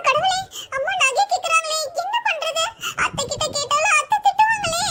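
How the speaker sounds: high-pitched worried thinking aloud; anxious fretting. Acted. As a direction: fret to yourself in dread. Worrying alone about the missing jewellery.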